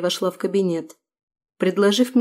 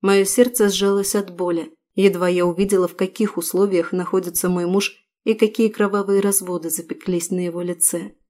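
ordinary delivery

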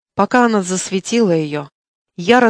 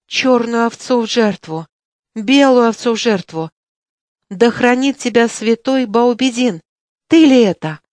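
high, louder wailing lament; elders lamenting; 3 semitones higher, 3 dB louder than usual. Acted. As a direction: wail it like frightened old folk. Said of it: "запричитали старики".

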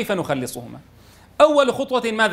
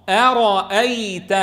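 slow joined word; much slower than usual. Shown as a demonstration. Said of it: "قراءتهما مدمجين".

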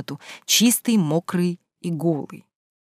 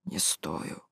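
whispered, much softer; whispered admission; 13 semitones lower, 15 dB quieter than usual. Acted. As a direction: whisper it, ashamed. Guilty young man answers quietly. (шёпотом, виновато)

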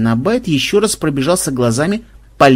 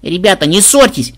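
raised, high peacemaking cry; pleading wail; 5 semitones higher, 4 dB louder than usual. A narrator's reading. Granddaughter begs her friends not to quarrel, mildly wailing. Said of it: "завопила внучка".

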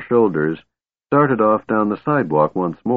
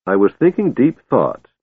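a touch of hurt pride, a bit higher; wounded; 4 semitones higher than usual. Acted. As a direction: sound offended but proud. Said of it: "Tass said in wounded tones".

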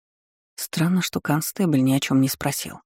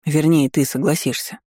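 brooking no objection. Acted. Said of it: "нетерпящим возражений тоном".

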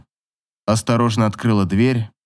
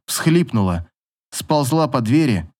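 ordinary delivery

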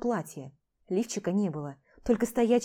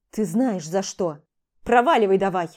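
growing louder toward a curt order to leave; angry; 7 dB louder than usual. Acted. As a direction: throw her out. Max throws Vlada out. (злобно, нарастая к крику)

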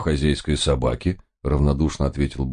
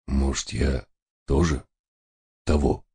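hoarse. A narrator's reading. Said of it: "сипло сказал он".

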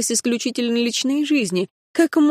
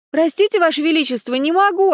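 выше, с ноткой издёвки; отказать королю с мнимой учтивостью; вежливая дерзость; 8 semitones higher than usual. A narrator's reading. Героиня дерзит королю через дверь. (притворно вежливо)

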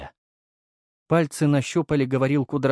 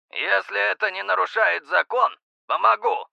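breathless; 9 semitones higher than usual. A narrator's reading. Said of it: "выдохнул Дрозд".

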